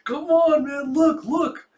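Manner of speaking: high, loud, urgent pleading; frantic dog voice. Acted. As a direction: beg like an overexcited dog. Bond's thoughts voiced, yanking leash.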